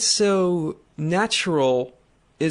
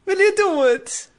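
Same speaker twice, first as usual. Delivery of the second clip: hammed-up fake Italian, much higher and louder; over-the-top mock Italian accent, pitched way up; 12 semitones higher, 5 dB louder than usual. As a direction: ham up a cartoon Italian stereotype. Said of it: "the fake Italian that nobody actually talks like".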